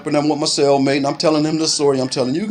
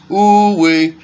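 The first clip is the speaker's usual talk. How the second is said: pained exclamation; 4 semitones higher, 4 dB louder than usual. Real, not acted. Recalling a hard punch.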